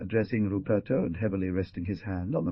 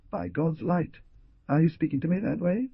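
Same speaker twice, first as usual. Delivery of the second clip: brutal; 9 semitones higher than usual. A narrator's reading. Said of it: "and said brutally".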